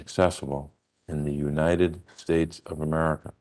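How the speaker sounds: "accessible" set apart by a pause for weight; measured stress on "accessible", then "United States of America" given in full; repeated with emphasis. Real, not acted. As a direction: let "accessible" stand alone before finishing the phrase. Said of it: "I say that again with emphasis".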